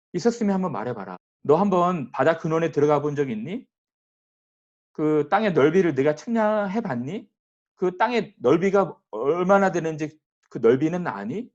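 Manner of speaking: a preacher lightly voicing God's harsh challenge; severe rebuke. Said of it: "하나님 호되게 책망하시는 거예요".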